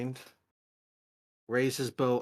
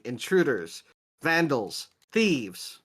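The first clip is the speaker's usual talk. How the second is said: a flat, tinny robot announcing; tinny robotic voice; 3 semitones higher, 4 dB louder, slower than usual. Acted. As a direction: sound like a tinny security robot. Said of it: "a kind of tinny robotic voice going".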